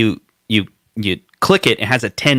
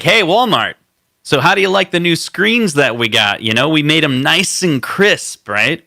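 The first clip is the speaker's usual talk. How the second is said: higher-pitched salesman voice pitching to a buyer; mock rep selling Walmart on crisp screens; company rep; 5 semitones higher than usual. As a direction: sweet-talk the store buyer, a bit higher.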